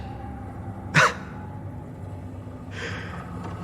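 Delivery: soft, voiceless huff of laughter; quiet dismissive scoff; low-volume breath of a laugh; scornful chuckle. Acted. Scoffs at the taunt.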